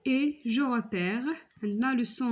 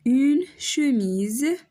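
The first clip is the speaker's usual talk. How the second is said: drawn out une chemise, higher; slow loud demo; 4 semitones higher, 5 dB louder, much slower than usual. Shown as a demonstration. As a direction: stretch the word out for the class. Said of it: "شفنا E". (نطق ممدود وعالي)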